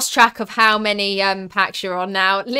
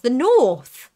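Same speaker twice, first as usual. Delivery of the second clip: higher, louder startled question; incredulous echo; 3 semitones higher, 6 dB louder than usual. Real, not acted. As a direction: throw it back in disbelief. Mock disbelief at accent guess.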